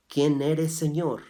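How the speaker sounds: loud awed question; urgent loud question. Shown as a demonstration. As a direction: ask it out loud, high and pressing. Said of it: "¿Te das cuenta cómo dice?".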